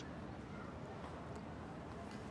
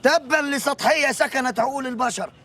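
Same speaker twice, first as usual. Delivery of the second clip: mock lofty lament; 4 semitones higher, slower than usual. Mock-lofty complaint about shallowness.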